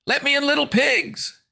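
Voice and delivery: high, loud fiendish screech; shrieking demon voice; demonic bellow. A narrator's reading. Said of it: "a demonic voice bellowed".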